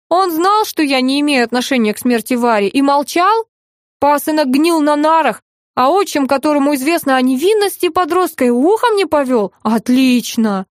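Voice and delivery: a touch of bitter outrage; angry tone. Acted. Wronged stepson mildly accuses his stepfather, indignant. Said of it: "не надо злого тона".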